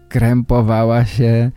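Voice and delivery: normal talking voice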